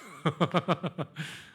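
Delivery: a quick amused laugh; short laugh. Real, not acted. Preacher laughs at his own confession, amused. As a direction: laugh at himself.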